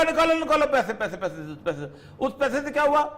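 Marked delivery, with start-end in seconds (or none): 0.0-1.9 mock demand for money. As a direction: start shrill and pushy, then trail off. America ordering Europe to pay.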